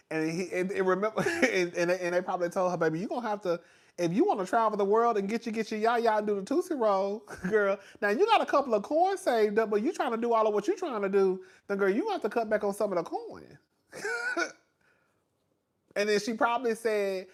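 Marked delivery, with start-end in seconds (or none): 2.8-13.6 higher, lively mock advisor; imitating a frank girlfriend-style accountant; imagined accountant advising. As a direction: tell her straight with playful sass. Voices accountant advising the client.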